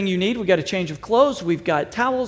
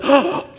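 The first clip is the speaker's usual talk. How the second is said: mock gasp; 5 semitones higher than usual. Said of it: "no one goes".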